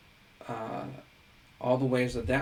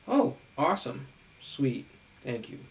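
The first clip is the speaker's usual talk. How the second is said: sarcastic student. Retold or imitated. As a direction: fake cheer of a lazy student. Student mocking easy exit slip.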